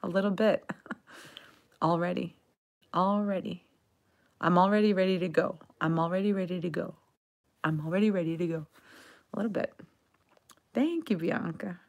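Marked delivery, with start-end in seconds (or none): 1.8-3.6 "Already" with a lightly dropped L. Shown as a demonstration. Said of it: "we drop the L a little bit". 4.4-8.7 fast phrase, "already" with the L nearly gone; dropped L. Shown as a demonstration. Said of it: "we drop the L a little bit".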